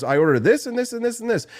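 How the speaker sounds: mock indignant Paula. Paula argues with cashier in story.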